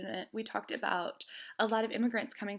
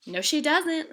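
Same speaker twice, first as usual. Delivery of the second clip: a firm, higher "no, she doesn't"; insisting; 7 semitones higher, 7 dB louder, slower than usual. A narrator's reading. Lily insists to Papa that Mama dislikes the statue. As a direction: dig in, a child who won't back down. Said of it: "Lily insisted".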